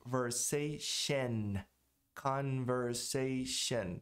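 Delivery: conversation bem lento, sílaba por sílaba; os dois N's. Shown as a demonstration. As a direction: pronuncie cada N de conversation. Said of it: "Os dois têm que ser pronunciados". (conversation devagar, com os dois N's claros)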